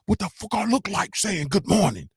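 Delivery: high-pitched imitation of a brash New York woman; Scarlett impression. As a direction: mimic her affronted opening line. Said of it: "She say".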